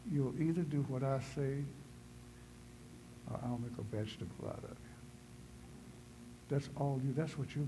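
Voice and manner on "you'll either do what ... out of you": Charlton Heston God. Retold or imitated. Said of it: "'cause that's what he sounded like".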